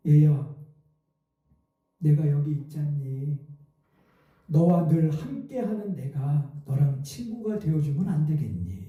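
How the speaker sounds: slow, low and gentle; tender voice of God. Retold or imitated. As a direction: soothe the crying child like a loving father. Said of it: "이렇게 말씀하시더래요".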